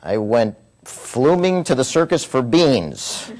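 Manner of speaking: slow, puzzled reading of a nonsense note; reading a garbled note. Retold or imitated. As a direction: read it out slowly, baffled. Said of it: "find a note that, as best I could read, said".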